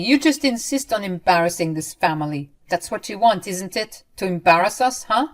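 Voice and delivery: loud, scornful tirade; berating. Acted. Ramona insulting her daughter-in-law, loud and contemptuous. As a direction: pile on the insults. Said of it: "started going off again".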